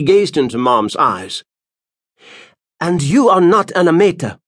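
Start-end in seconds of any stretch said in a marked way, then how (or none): 2.8-4.4 put-on high, louder accusing old woman; old seer accusing. Spurinna exposing Moms as an impostor. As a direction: unmask her like a fierce old seer.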